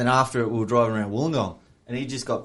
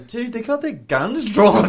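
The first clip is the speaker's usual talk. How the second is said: retold alarm; 9 semitones higher, 3 dB louder, slower than usual. Mate's alarmed warning, retold.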